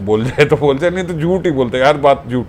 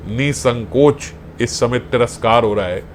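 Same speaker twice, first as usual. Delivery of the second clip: lightly voiced elder; 4 semitones lower, 4 dB quieter than usual. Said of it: "बाबा बोल रहे हैं".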